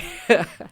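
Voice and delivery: tipsy giggle. Real, not acted. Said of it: "I'm a little tipsy".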